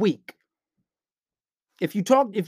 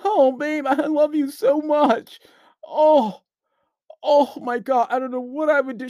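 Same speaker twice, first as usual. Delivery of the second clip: higher, slow gushing lovesick voice; mock simp; 7 semitones higher, slower than usual. Mocking a guy gushing to his girl, high slow gushing voice. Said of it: "Telling her you fucking love her every second".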